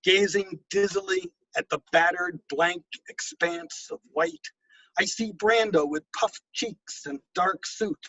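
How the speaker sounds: measured, unhurried poetic reading; poem reading. Acted. Poet reading his own poem to an audience, measured cadence. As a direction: let each image land with a pause before the next.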